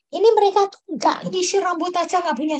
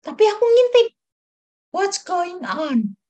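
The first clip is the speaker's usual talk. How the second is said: excited aside; 3 semitones higher, 4 dB louder, slower than usual. Retold or imitated. Peeking excitedly from behind car.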